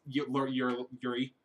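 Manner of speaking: stumbling over the name; tripping over the words; mumbling. Real, not acted. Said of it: "Use your words, dude".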